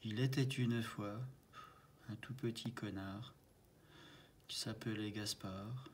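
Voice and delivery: soft storytelling in short, paused phrases; mock fairy-tale narration. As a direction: improvise a little tale quietly, line by line. Improvise un début de conte. (conte improvisé, à voix basse)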